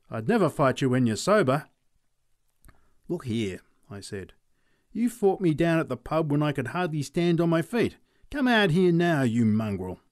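lightly voiced aching old bushman; grumbling farmer. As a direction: grumble about a stiff neck. McLeod taunts Charlie.

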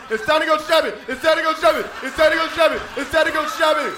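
put-on excited like a kid at Christmas. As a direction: bounce it out like a six-year-old on Christmas morning. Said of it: "like a six-year-old on Christmas morning".

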